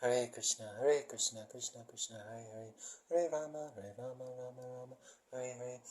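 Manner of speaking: mantra recited slowly, name by name; slow the chant down a little, measured. Shown as a demonstration. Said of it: "maybe I'll say it slowly".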